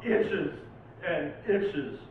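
dramatic, urgent poem recital; poetry reading. Acted. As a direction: warn the listener like a haunted stranger. Recites second Lovecraft poem.

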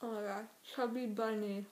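words mushed by marshmallows; cheeks stuffed full. Real, not acted. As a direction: talk with a stuffed mouth. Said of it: "Peeps are really hard to fit in your mouth".

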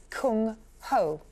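slow, careful Mandarin-style Kung Ho; attempted Mandarin accent. Shown as a demonstration. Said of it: "Apologies for the ... accent there".

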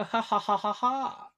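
lightly put-on posh "ha ha"; posh laugh. Shown as a demonstration. Vlogger showing a posh laugh. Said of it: "Or posh".

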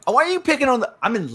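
high mock-whiny complaint; mock whine. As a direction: play the hard-done-by loser. Mock-whiny protest in game.

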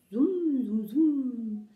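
drawn-out, huffy humming bee; offended bee buzz. A narrator's reading. Bee answering the snapping puppy, offended buzzing. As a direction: buzz it long, like an affronted bee. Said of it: "machte die Biene beleidigt".

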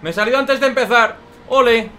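loud bitter sarcasm; sarcastic outburst. Real, not acted. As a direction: shout it with ironic disgust. Went off track at start. (arrebato sarcástico)

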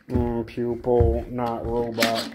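slow droning robot; a machine insisting it's not one. Pretend. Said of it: "You don't sound like the people".

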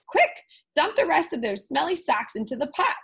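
mild hurried witch yell; urgent yell. Acted. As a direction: bark the order in a hurry. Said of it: "Ophelia yelled".

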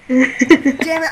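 loud sharp voice. Real, not acted. Realizes said name.

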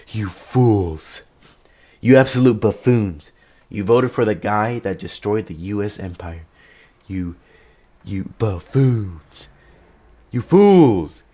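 mock the voters like a smug liberal. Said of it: "they're gonna be like".

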